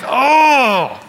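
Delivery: high, loud, put-on "Oh"; a deflated little "Oh"; hammed-up letdown sigh; mock disappointed oh. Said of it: "You're like".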